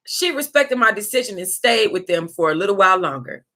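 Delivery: whispered aside. Real, not acted. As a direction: whisper it under her breath. Whispered line.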